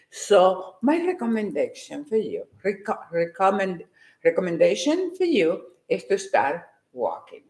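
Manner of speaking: a deliberately calm voice. Shown as a demonstration. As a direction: rein yourself in and speak calmly. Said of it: "this is the calm me".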